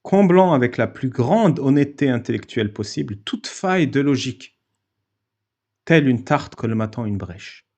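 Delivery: measured, carefully articulated text reading; formal read-aloud. Acted. Host reading his written argument to the stream, formal read-aloud. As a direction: read it out like a solemn essay.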